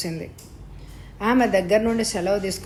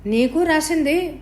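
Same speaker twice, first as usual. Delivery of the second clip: slow, high, louder doubting question; suspicious; 7 semitones higher, 3 dB louder, slower than usual. A narrator's reading. Ravidhar doubts Vishala got money, high slow suspicious question. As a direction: narrator voicing Ravidhar, higher and slower, doubting it. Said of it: "అనుమానంగా అడిగాడు".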